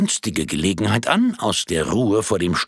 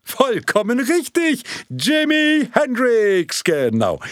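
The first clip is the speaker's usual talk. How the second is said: enthusiastic confirmation; 14 semitones higher, 4 dB louder, slower than usual. Acted.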